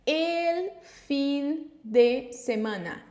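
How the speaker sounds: El fin de semana read very slowly; a teacher reading El fin de semana syllable by syllable; slow careful Spanish. Shown as a demonstration. Teacher reading a Spanish sentence to learners, slow and careful. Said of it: "Já começo com uma".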